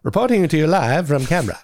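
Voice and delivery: a hint of vintage broadcast delivery; fifties news reporter. Reporter going live to viewers, mock fifties news voice. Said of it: "like a fifties news reporter".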